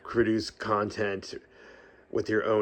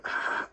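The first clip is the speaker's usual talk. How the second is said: a quick unintentional "Ah" on the out-breath; short breath sound; 4 dB quieter than usual. Shown as a demonstration. Showing viewers the breathing habit she has, a quick soft "Ah". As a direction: let a small "Ah" slip out after a long run of words. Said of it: "I'll just kinda go".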